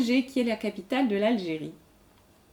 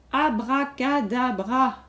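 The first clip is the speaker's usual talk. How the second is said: slow, deliberate. Shown as a demonstration. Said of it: "Allez, à vous de compter".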